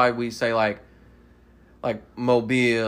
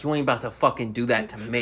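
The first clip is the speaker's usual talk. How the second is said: put-on Southern accent; 3 semitones lower than usual. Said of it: "You get hella Southern when you get frustrated".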